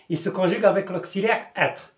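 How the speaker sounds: "il se conjugue avec l'auxiliaire être" said slowly and clearly; slow dictation. Shown as a demonstration. Teacher slowly stressing the rule to students: slow, deliberate. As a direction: spell it out slowly for the class. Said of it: "Faites attention".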